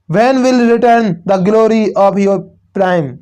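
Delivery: very slow, drawn-out reading of a verse line; teacher reciting a line of poetry, slow and deliberate; slow poem recital. Shown as a demonstration. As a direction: read it like a poem to the class, slowly. Teacher reads poem line slowly.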